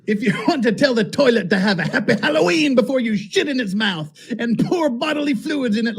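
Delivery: giggling through the line; can barely keep it together, laughing as you read; laughing while reading. Real, not acted. Reading the rant aloud to a friend, cracking up mid-sentence.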